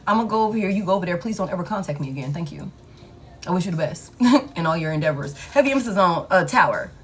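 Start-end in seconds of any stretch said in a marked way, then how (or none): 0.1-5.4 fake-gracious goodbye to someone who walked out; mock polite brush-off. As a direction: show them the door politely.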